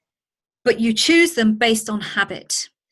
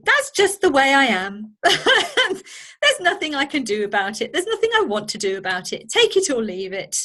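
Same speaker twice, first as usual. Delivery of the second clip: defiant dismissive; 3 semitones higher than usual. Retold or imitated. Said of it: "some people will say".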